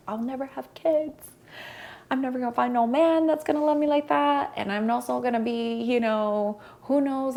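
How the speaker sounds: high-pitched lament, drawn from a past heartbreak; acted-out grief. Woman retelling her breakup despair, high mock lament. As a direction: wail it lightly, imitating your grieving self. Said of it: "when I was in that grief".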